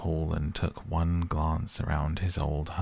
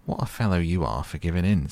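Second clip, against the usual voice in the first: reproachful; 4 dB louder, faster than usual. Acted. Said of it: "said the Rat reproachfully".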